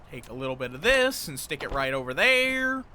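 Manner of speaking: accidental slip into a Texan accent; badly done Texan accent. Real, not acted. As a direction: slide into a rough Texan twang, lifting at the end. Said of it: "I don't know why I went like Texan".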